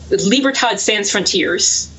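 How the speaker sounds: slow, half-Spanish mangled French; attempted Spanish accent. Real, not acted. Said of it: "I actually attempt a Spanish accent".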